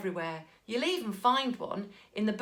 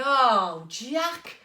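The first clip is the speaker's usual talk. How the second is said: high, loud despairing mother; exasperated mum; 8 semitones higher, 6 dB louder than usual. A narrator's reading. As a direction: wail in mock despair. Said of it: "she said".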